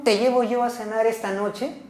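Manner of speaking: "llevo" lifted and stressed, rising; a statement stressing "llevo". Shown as a demonstration. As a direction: lean on "llevo" with a rise. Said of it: "yo voy a cambiar la entonación".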